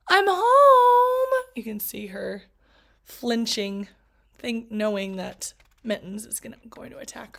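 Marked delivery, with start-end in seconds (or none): 0.1-1.4 high, loud call through the house. Acted. Girl bracing herself as she calls out she's home. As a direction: announce you're home, bracing.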